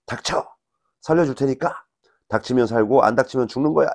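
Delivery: mock doctor's yell, pitched high; 소리치는 의사 흉내. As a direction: act out a TV surgeon's shouted order. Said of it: "청진기를 막 휘저으면서 소리치죠". (드라마 속 외과 과장이 소리치는 흉내)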